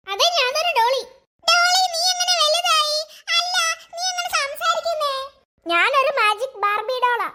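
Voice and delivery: a talking doll speaking gently; magic doll voice. Acted. Brother plays the magic doll.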